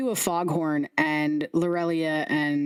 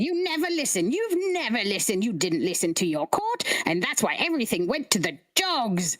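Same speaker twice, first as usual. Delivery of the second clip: bickering head; 2 semitones higher than usual. Acted. Heads bickering.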